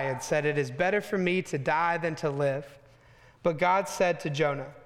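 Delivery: measured, steady Bible reading voice; scripture reading. Acted. Preacher reads scripture to his church, measured and steady. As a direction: read the passage to the congregation.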